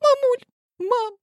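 a daughter begging forgiveness in tears; high, loud tearful apology; crying. A narrator's reading. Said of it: "И заплакала".

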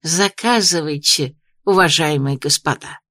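slushy sh for s in Заказывайте and господа, slow; lisping. A narrator's reading. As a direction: lisp every s into sh. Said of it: "торопливо зашепелявил знакомым голосом".

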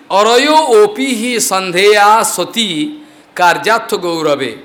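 slow chanted verse, each word weighed; sanskrit recitation. Acted. Storyteller reciting the Lord's verse, slow and chanted. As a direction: intone the scripture line slowly.

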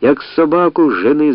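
loud jeering yell; shouting. Acted. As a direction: drive him off with a shout. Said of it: "закричали на всі лади".

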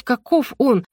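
ordinary delivery

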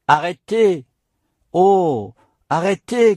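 despairing cry. A narrator's reading. Nun clutching the monk's robe, despairing plea. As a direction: beg him to stop, desperate. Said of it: "cria-t-elle avec l'accent du désespoir".

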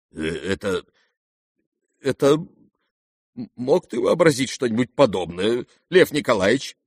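sharp outcry. A narrator's reading. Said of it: "резко вскричал генерал".

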